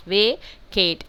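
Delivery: "vacate" split into two clear beats; two syllables. Shown as a demonstration. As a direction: say "vacate" as two separate syllables, long A in each. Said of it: "divided into two syllables". ("vacate" दो हिस्सों में तोड़कर)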